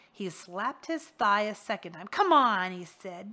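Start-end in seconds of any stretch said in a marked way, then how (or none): 2.1-2.7 loud, sharp summons; impatient call. Acted. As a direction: bark it like calling a dog. Rictus commands Harvey.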